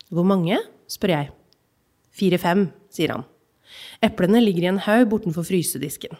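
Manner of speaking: measured reading of a literary excerpt; calm, even narration of a childhood memory; story reading. Acted. Reads novel excerpt aloud.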